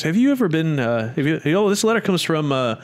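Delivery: imitating talk show host. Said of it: "he goes".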